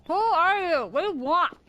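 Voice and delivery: angry demand. Acted. Woken creature demands answers.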